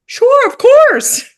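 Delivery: high, slow, overly eager agreement; eager yes. Retold or imitated. Agreeing to help the rabbi, eagerly high. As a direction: sing out a bright yes without thinking.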